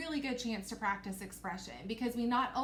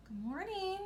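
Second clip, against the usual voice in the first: princess voice; 9 semitones higher than usual. Acted. Princess greeting everyone at breakfast, high-voiced. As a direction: pitch it well up as a storybook princess. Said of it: "I made my voice go up when the princess was talking".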